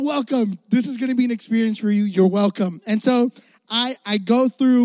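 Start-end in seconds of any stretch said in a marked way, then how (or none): 0.0-2.8 smooth, fast tech-launch pitch; keynote presenter. Retold or imitated. Child pretending to launch the new iPhone, fast and smooth. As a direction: sell it like a product reveal. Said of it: "I felt like I was presenting the new iPhone".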